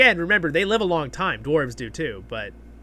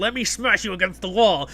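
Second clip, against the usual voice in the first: snow troll voice; 5 semitones higher, 3 dB louder than usual. Retold or imitated. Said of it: "the snow troll's like".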